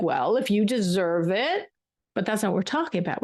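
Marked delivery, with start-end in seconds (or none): 0.0-1.7 slow, grudging mock praise, said a little coolly; grudging conditional praise. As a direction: hand out the praise as if it must be earned. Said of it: "praise could also sound like".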